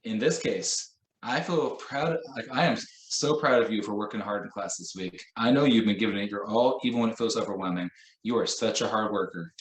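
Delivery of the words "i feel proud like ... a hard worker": heartfelt praise. Shown as a demonstration. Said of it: "said it to you like that".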